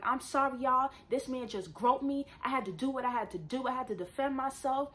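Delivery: public announcement. Retold or imitated. Woman explaining to whole bus, retold public announcement. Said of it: "I make a public announcement".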